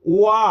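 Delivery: ওয়া said alone, drawn out and stressed; sound isolated. Shown as a demonstration. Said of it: "ওয়ান উচ্চারণ করতে গেলে কি উচ্চারণ হচ্ছে?". (ধ্বনিটা আলাদা করে "ওয়া" বলা)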